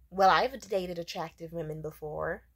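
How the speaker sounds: mildly smug retort; smug condescension. Retold or imitated. Date answering her wish to be found attractive, mildly smug. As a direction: imitate an arrogant date with light condescension. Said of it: "smugly and arrogantly, kinda condescendingly".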